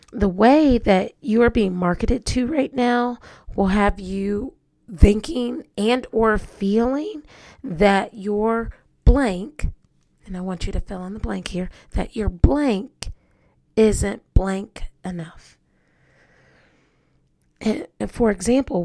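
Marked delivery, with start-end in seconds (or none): 0.1-9.7 slow, emphatic statement with spaced-out words; deliberate delivery. Real, not acted. Host reciting a fill-in-the-blank saying to listeners, slow and deliberate. 11.9-15.6 very slow, separated words; deliberate delivery. Real, not acted. Host giving listeners a sentence to fill in, slow and deliberate. Finishing the fill-in-the-blank saying.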